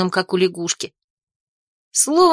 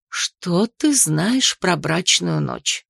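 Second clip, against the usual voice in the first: slow, lowered aunt; 4 semitones lower, much slower than usual. Acted. Aunt asks slowly, lower.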